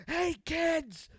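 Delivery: high, loud manic greeting; mock-crazed "Hey, kids!"; crazy grape man. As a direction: burst in like a deranged mascot. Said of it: "He's not, not happy, just crazy".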